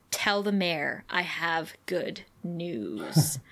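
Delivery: slow, low scheming principal; a hint of a gloating schemer at slow pace; sly villain. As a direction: savor each word like a villain. Principal's sinister phone call.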